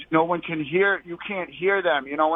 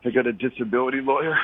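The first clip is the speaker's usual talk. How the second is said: out of breath; 3 semitones lower than usual. Real, not acted. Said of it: "why do you sound like you're out of breath".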